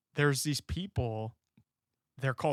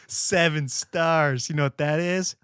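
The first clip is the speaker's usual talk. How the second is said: put-on slow, drawn-out old man lecture; imitating grandpa; 2 semitones higher, 5 dB louder, slower than usual. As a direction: mimic grandpa explaining slowly. Grandpa voiced in a story.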